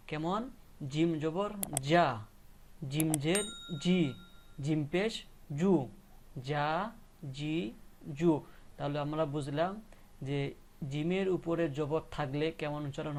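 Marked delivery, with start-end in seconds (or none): 0.9-8.3 measured জা, জি, জু with long vowels; spelling-out drill. Shown as a demonstration. Teacher showing jim with three marks, spelling-out drill. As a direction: spell out each mark, then hold জা, জি, জু. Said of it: "তাহলে উচ্চারণগুলো হবে আমার".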